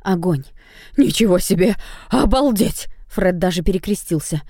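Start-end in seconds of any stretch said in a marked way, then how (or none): 1.0-2.9 amazed. Acted. Fred amazed at dragon.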